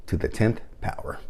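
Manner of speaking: dramatic soft reveal of the title; hushed title reveal. Acted. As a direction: let the title drop softly, for effect.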